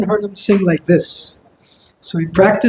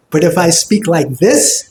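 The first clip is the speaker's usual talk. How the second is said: smiling tone on "speak like this"; "speak like this" spoken through a wide smile; bright. Shown as a demonstration. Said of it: "it's bright".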